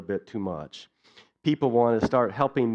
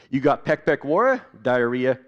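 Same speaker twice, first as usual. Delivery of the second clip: doctor in Pidgin; 3 dB louder than usual. Retold or imitated. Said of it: "share with you a little bit of what that was like".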